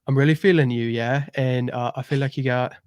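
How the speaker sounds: lightly done British accent, Love Island reality-show style; a casual Love Island British accent in a chatty flirting tone. Shown as a demonstration. Guest asks for his best British accent, so a light British Love Island accent. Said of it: "Can I hear your best British accent?".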